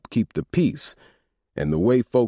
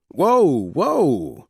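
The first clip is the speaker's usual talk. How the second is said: chiming in; 9 semitones higher, 5 dB louder than usual. A narrator's reading. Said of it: "Rio chimed in".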